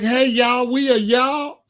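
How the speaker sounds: a hammed-up cheery greeting, mocking. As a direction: parody the other guy's slogan. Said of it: "I was like".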